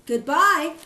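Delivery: a high, loud bleat of farewell; bleating goodbye. Acted. Mother goat bleating goodbye to her kids. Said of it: "bleated the mother goat".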